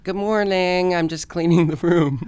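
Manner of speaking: bright safe-around-friends voice; gay voice. Retold or imitated. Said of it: "I'd say, like".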